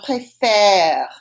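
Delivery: "préfère" slow, with an open eh in the last syllable; sound demonstration. Shown as a demonstration. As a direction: stretch the final eh of "préfère". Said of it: "that gives us, it the sound".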